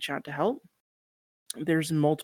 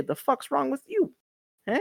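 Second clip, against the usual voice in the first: loud mock-outraged New Yorker; 11 semitones higher, 4 dB louder than usual. Guest acts out defending lipstick and beard, outraged New Yorker accent. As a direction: pick a street fight in a New Yorker accent. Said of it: "that very New Yorker".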